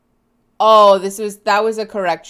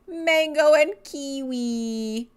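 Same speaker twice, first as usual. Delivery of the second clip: squeal; 5 semitones higher, slower than usual. Real, not acted. Gushing over cute pet photos.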